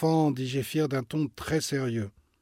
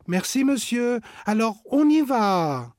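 higher, louder hurried thanks; eager; 9 semitones higher, 7 dB louder than usual. Acted. Agathe eagerly thanking the owner before running off, higher. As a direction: thank him and rush off. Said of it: "s'empresse de répondre Agathe".

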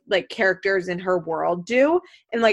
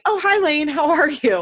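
higher, louder breezy hello; casual greeting; 6 semitones higher, 5 dB louder than usual. Retold or imitated. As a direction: greet someone lightly, pitched up. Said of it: "I'd be like".

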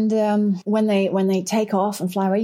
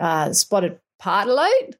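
attempted Australian accent, rising at the end. Irish author trying the bird's name for students, Australian accent. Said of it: "Shall I say it in Australian accent?".

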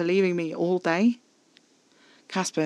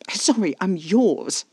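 slow, higher, drawn-out scoff; 5 semitones higher, 4 dB louder, much slower than usual. A narrator's reading. Narrator answering Caspar's claim of ownership, scoffing. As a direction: stretch it out in mocking disbelief. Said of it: "I scoffed".

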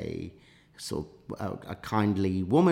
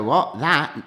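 louder, higher flustered reply; flustered mock panic; 7 semitones higher, 8 dB louder than usual. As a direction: scramble to cover up, play-acted. Acts out his panic at discovery.

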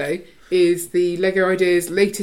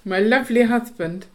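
lisp; 4 semitones higher than usual. Real, not acted. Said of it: "Why do you say that with a lisp?".

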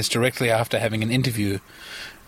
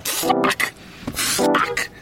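flail and shriek as the bug lands on you; freaked out by a cockroach; 10 semitones higher than usual. Real, not acted. Stuck in a car with a cockroach, real panic.

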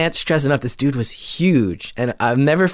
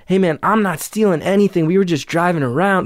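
higher, defensive mock shout; retold yelling back; 6 semitones higher than usual. Narrator denies stealing to the driver, raised defensive voice. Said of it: "we're yelling at each other".

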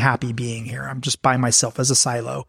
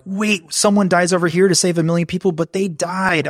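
mock outrage; 5 semitones higher than usual. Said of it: "some people find totally abhorrent".

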